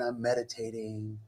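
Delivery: serene meditating. Retold or imitated. Man recalls meditating on his patio, serenely. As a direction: gently act out a meditative bliss.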